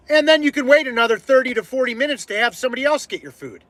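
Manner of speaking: pent-up frustration spilling over at a customer; fed up. Retold or imitated. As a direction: re-enact laying out an angry ultimatum. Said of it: "I couldn't take it anymore".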